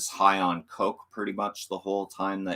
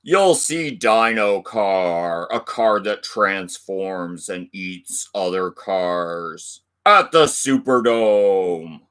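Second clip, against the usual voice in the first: slow, louder hype announcer; monster truck ad; 6 dB louder, slower than usual. Acted. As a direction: draw out each word like a rally ad. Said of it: "read that like those old monster truck ads".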